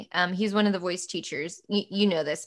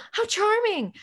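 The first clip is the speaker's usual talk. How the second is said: higher, lightly voiced delighted Brit; mock charmed Brit; 12 semitones higher than usual. Imitating UK listeners charmed by her accent, lightly voiced. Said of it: "everyone's like".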